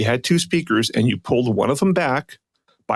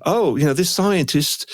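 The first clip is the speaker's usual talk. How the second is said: slow, higher, shaky-footed Australian impression; attempted Australian accent; 5 semitones higher than usual. Mocking the presenter citing scientists, amateur Australian accent. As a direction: have a go at an Australian accent, drawing it out. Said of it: "do it in an Australian accent".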